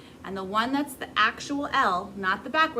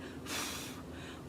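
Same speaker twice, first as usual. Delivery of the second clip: long unvoiced breath pushed out; airy blow; 14 dB quieter than usual. Shown as a demonstration. Teacher showing the wrong way to blow, a long breathy push of air. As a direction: blow air with no tongue at all. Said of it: "instead of going".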